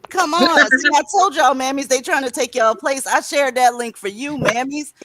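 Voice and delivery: loud and high, calling everyone in. Real, not acted. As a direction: shout across the room to the mammies. Calling out to the mammies in chat.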